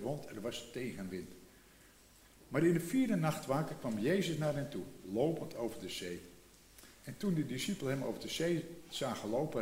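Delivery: calm, even Bible reading voice; measured reading of scripture. Acted. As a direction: read the passage aloud to the congregation. Reads the Bible passage.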